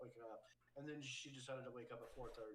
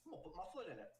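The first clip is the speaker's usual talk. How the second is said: put-on defiant little girl; 8 semitones higher, 20 dB louder, faster than usual. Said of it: "she's like".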